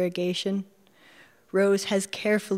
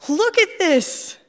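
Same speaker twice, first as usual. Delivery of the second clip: much higher, louder, slow gleeful cry; loud gleeful Midwestern; 12 semitones higher, 6 dB louder, slower than usual. Acted. Narrator calling to Rose about her river find, gleeful shout. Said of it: "loud, gleeful Midwestern voice".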